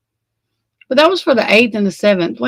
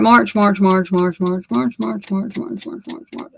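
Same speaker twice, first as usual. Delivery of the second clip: fading mumble. Real, not acted. Scrolling, repeating month, fading.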